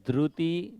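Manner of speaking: ધૃતિ said as druti with an u sound; the wrong way, ધૃતિ with a rounded ru; wrong dhruti. Shown as a demonstration. Teacher showing the common mistake, ધૃતિ with ru. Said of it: "ર ને તમે ઉ બોલો છો ને?".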